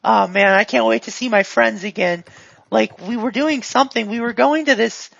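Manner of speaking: lightly voiced eager goon; a hint of a guileless, upbeat helper; chatty, friendly character.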